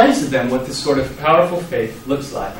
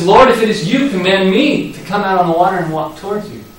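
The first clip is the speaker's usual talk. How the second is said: higher, louder eager Peter; eager plea; 4 semitones higher, 3 dB louder than usual. Retold or imitated. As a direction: bold request full of faith. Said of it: "And he says".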